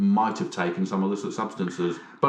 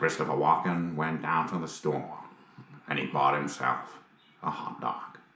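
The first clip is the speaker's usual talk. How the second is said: low, soft, easy narrator voice; 4 semitones lower, 5 dB quieter than usual. Asked to tell a story in an impression, a speaker narrates sounding like Morgan Freeman. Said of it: "You sound a little bit like Morgan Freeman".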